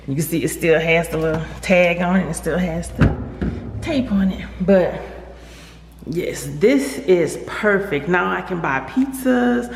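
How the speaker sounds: echoey room, loud and excited; garage echo. Real, not acted. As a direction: speak in a bare garage with echo. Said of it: "As you can hear by the echo".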